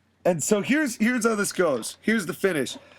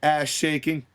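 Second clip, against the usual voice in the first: cocky wrestler promo. Retold or imitated.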